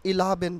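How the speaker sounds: "ইলাভেন" as i-la-bhen; "ইলাভেন" keeping a short opening I; alternative pronunciation. Shown as a demonstration. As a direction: say "ইলাভেন" with an open "la" in the middle. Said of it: "অথবা এটাকে আমরা".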